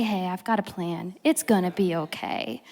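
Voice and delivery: soft, low, calming voice; reassuring. Acted. God telling a troubled believer of a plan, softly reassuring.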